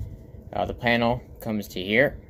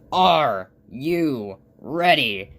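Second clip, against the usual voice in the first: loud, very slow hype shout; crazed excitement; 3 semitones higher, 5 dB louder, much slower than usual. Acted. Crazy-eyed friend before a sled run, slow manic shout. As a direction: stretch each word like a manic announcer. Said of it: "crazy look in his eye".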